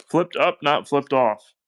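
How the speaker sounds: slow, emphatic correction, setting "up" against "off"; contrastive stress. Real, not acted. Clarifying a joking wordplay.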